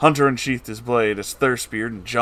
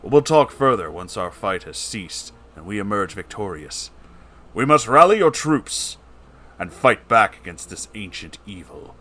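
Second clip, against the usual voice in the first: noble gentleman voice. Acted. Noble gentleman character speaks.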